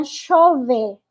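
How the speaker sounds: Argentine sh in "chover"; Argentine accent. Shown as a demonstration. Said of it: "é o argentino".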